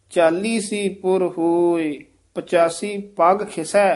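measured phrase ending in a stop on ਖਿਸੈ; pause after ਖਿਸੈ. Shown as a demonstration. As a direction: read through to ਖਿਸੈ, then rest. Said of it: "ਇੱਥੇ ਵਿਸਰਾਮ".

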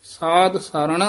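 ਸਾਧ ਸਰਣ then a clear rest; ਸਾਧ ਸਰਣ ਤੋਂ ਬਾਅਦ ਵਿਸਰਾਮ; pause after phrase. Shown as a demonstration. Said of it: "ਇੱਥੇ ਵਿਸਰਾਮ".

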